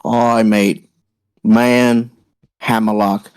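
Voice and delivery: put-on British accent. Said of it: "distinct yet familiar accent".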